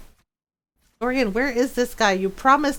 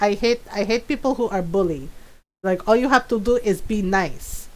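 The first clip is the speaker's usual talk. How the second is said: imitated Filipino mom; 2 semitones lower than usual. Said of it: "she's like".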